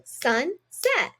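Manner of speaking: "sunset" stretched slowly, syllable by syllable; slow syllable pounding. Shown as a demonstration. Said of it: "pound those syllables out".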